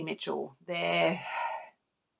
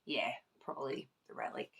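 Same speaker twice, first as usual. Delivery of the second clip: whisper; 5 semitones lower, 13 dB quieter, faster than usual. Real, not acted. Whispered aside about favourite.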